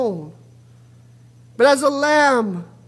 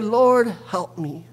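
desperate plea; 6 semitones lower, 3 dB quieter, slower than usual. Acted. Woman crying out to Jesus.

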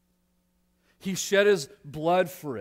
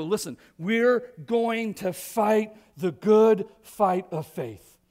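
rallying cry; 4 semitones higher, 6 dB louder, slower than usual. Acted. Believers rallying together.

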